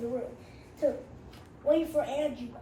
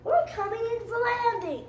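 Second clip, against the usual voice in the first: higher, louder captain call; pilot announcement; 7 semitones higher, 3 dB louder than usual. Acted. Little Bill as captain, calling the landing loudly.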